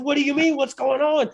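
high, alarmed retold questioning; panicked. Startled man answers the woman rushing at him, panicked. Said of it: "I'm panicked".

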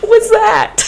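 high breathy shocked gasp of words; stunned disbelief. Retold or imitated. Telling friend their reaction to the man, shocked whisper. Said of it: "we're just like".

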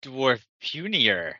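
slow, dim-witted ogre speech; lightly voiced brute, slow and simple; dim slow booming giant. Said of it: "The ogre says".

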